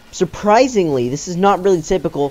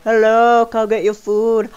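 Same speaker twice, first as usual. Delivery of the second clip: higher, bright call across the restaurant; 6 semitones higher, slower than usual. Retold or imitated. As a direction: call the customer to the counter. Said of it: "calling his name".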